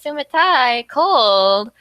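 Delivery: acted outburst. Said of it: "And she's like".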